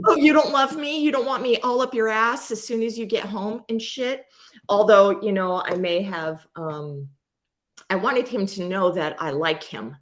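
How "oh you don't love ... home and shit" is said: a hammed-up needy partner; mock hurt whine. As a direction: pretend to be needy and wounded. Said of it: "I wasn't like".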